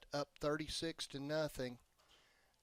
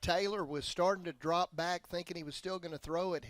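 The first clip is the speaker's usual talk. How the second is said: excited commentary; 3 semitones higher, 5 dB louder than usual. Real, not acted. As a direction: pump up the replay breakdown. Color man reacts to big run.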